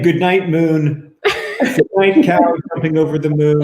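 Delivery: slow, loud monotone bedtime reading; Donald Trump monotone. Pretend. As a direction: drone it out like a teleprompter read. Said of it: "that monotone voice".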